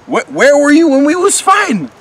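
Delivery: very high, loud, sputtering protest; frantic, stammering outburst; outraged shouting. Acted. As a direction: yell in high-pitched indignation, tripping over words. Horns confronts old acquaintance.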